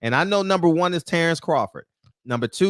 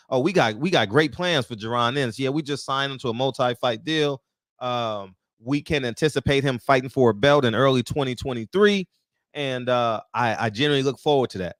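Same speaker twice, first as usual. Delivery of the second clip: lower, smug corporate voice, sped up at the end; mock executive; 5 semitones lower than usual. Vlogger mocking the network boss's promises, lower smug voice. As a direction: parody a slick TV boss reading his talking points.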